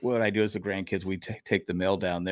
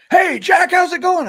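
much higher and louder hearty neighbor's greeting; big booming voice; 10 dB louder than usual. Retold or imitated. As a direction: boom it out like a friendly old neighbor calling across the yard. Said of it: "he had his big booming voice".

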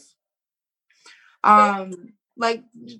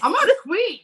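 proud declaration; 9 semitones higher than usual. Shown as a demonstration. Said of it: "Did you hear that?".

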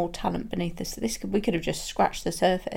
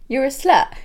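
put-on loud, higher Bristol accent jibe; friendly Bristol accent insult; cheery Bristol accent, like mates joking; 6 semitones higher, 8 dB louder than usual. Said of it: "in a Bristol accent".

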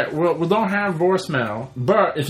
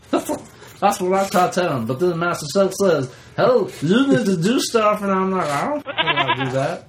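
Meatwad voice. Acted. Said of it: "Do Meatwad".

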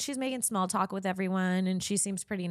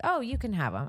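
quicker, lightly raised offhand handover; nonchalant concession; 5 semitones higher than usual. Retold or imitated. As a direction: toss it off casually, a bit higher. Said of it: "just like that".

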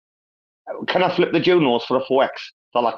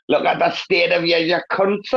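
higher-pitched laughing heckle; amused, raised-pitch taunt; mocking jeer; 6 semitones higher than usual. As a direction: jeer at them, breaking into laughter. Acted jeer at walk of shame.

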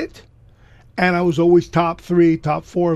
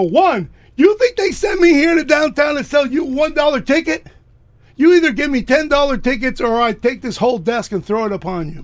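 high, loud outraged yelling; indignant shout; 6 semitones higher, 4 dB louder than usual. Retold or imitated. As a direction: blast him for the insult. Kid yells at the magnate.

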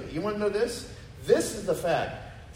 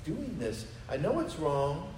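quiet inner lament; 5 dB quieter than usual. Retold or imitated. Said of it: "You're like".

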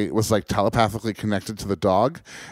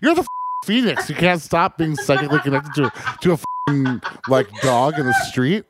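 exasperated scolding; 3 semitones higher than usual. Retold or imitated. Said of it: "I'm like".

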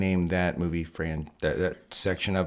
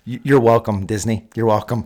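mock gracious; 6 dB louder than usual. Mock gift to Disney.

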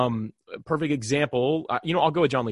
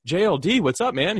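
excited greeting; 6 semitones higher, 4 dB louder than usual. Retold or imitated. Greeting a famous guest.

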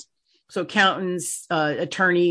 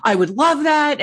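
higher, louder, slower with joy; eager delight; 8 semitones higher, 5 dB louder than usual. Retold or imitated. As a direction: savour the yes like a gift. Accountant eagerly accepting.

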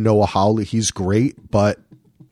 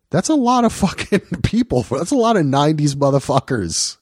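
laughing amazement; 4 semitones higher than usual. Real, not acted. Amazed by the star cast.

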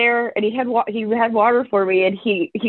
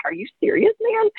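mock incredulous. Incredulous first reaction, retold.

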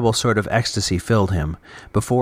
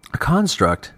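higher-pitched, questioning repeat of A construct; narrator's voice for a puzzled listener; puzzled echo; 6 semitones higher than usual. A narrator's reading. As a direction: echo it back in surprise, pitch lifted. Ivo questions the man's word.

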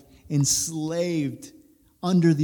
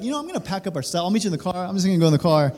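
lightly imitated eager son, a bit higher and louder; super obedient son; 4 semitones higher, 5 dB louder, much faster than usual. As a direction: hurry to comply, like a kid avoiding trouble. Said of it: "obedient mode".

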